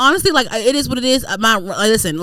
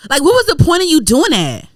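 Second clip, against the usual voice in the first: high-pitched indignant complaint; mad; 8 semitones higher, 4 dB louder than usual. Retold or imitated. Tenant questioning bank's point, mad high complaint. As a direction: demand an answer in a high wail. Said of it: "I was mad at them".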